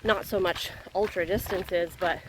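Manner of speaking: talking mid-jog; speaking while out running. Real, not acted. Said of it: "Cruising along at an eleven thirty pace".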